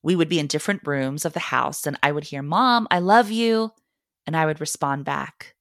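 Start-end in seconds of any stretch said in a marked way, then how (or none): 2.4-3.7 calling from another room. Retold or imitated.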